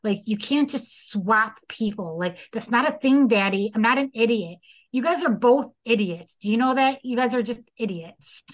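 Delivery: mildly exasperated mock scolding; a touch of indignant disbelief; angry daughter, retold. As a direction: imitate a daughter getting fed up. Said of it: "Cinnamon's getting angry".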